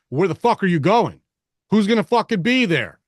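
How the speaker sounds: loud, high, profane street demand; Detroit talk. Acted. Dad grilling his girls in Spartan dialect, loud and aggressive. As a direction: bark it like a tough Detroit interrogation. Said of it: "That's Detroit talk".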